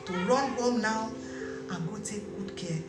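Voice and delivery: soft, slow, reassuring explanation; gentle counsel. Acted. Auntie calmly comforting the worried wife, soft and slow. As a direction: soothe her like a wise elder.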